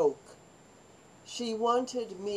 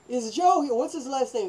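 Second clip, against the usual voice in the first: soldier at the barracks; 5 semitones higher, 4 dB louder than usual. Retold or imitated. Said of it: "the guy at the barracks would say".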